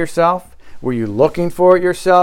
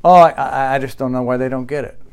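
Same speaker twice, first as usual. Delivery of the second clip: mock panic; 3 semitones lower than usual.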